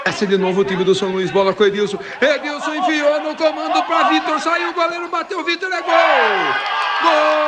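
football commentary building to a goal shout; live play-by-play. Acted. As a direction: call the attack rising to GOL.

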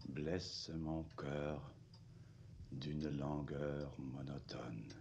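very slow, drawn-out recital; slow poem recitation. Acted. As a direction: recite each word slowly like verse. Officer recites the Verlaine poem.

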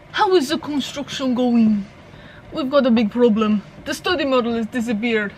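hammed-up French accent for a game character; bad French accent. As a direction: put on a joke French accent. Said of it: "used to be able to do a French accent".

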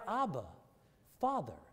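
quiet, intimate "Abba, Father"; tender, soft. Acted. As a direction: say it softly like calling a daddy. Tender retelling after explaining Daddy.

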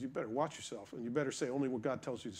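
a softly spoken angel's threat; quiet warning. Retold or imitated. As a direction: hush it down, menacing and low. Angel warns Balaam.

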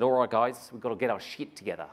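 imitating an Australian rallying the room; Australian accent. Host imitating Fitz on stage in a mock Australian accent. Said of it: "that's my best Australian accent".

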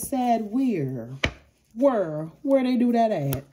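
high, loud, mocking disbelief; sassy Libra. Libra mocking the ex who wanted her sad, high and sassy. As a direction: toss the question back with sass. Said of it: "Libra says".

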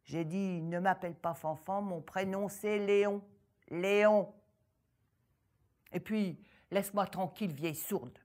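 loud, snappish peasant; irritated farmer. Acted. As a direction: tell her off impatiently. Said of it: "Le sourd paysan s'énerva".

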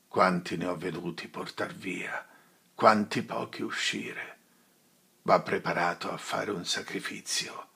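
a lightly voiced old friar, solemn and steady; a hint of a weary old priest; grave friar. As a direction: counsel him gently but gravely. Friar counsels Renzo gravely.

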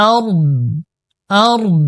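আরদ ends on a crisp, clearly sounded d; clear final d. Shown as a demonstration. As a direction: stop on আরদ and sound the d cleanly. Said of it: "দদের উচ্চারণটা কিন্তু একেবারে পরিষ্কার". (আরদ-এর দ স্পষ্ট উচ্চারণ)

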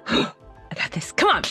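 ordinary talk

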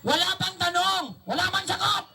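dummy voice. Acted. Ventriloquist dummy answering back.

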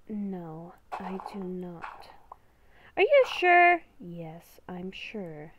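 hushed, slow whisper of an inner beast; beast within voice. Acted. Inner beast whispering a warning to Haley, hushed and ominous. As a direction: whisper like a creature living inside her head.

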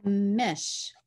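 unvoiced whispered "Mish", falling; whispered sounding out. Shown as a demonstration. Teacher whispering "Mish" to a young reader. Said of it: "We don't use that one often".

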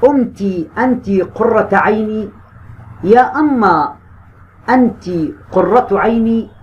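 slow, deliberate exam-question reading. Shown as a demonstration. Teacher slowly reading the exam question aloud to students. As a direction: read each option out slowly for the class. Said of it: "بيقول لي".

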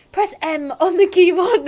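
hammed-up granny giving instructions. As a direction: read it out in a put-on granny voice. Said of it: "I can do my granny voice".

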